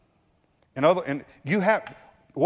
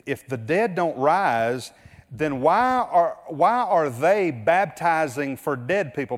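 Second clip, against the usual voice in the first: slow, slightly raised sarcastic challenge; 3 semitones higher, slower than usual. Retold or imitated. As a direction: needle them with a sarcastic why. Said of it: "he's using a little bit of sarcasm here".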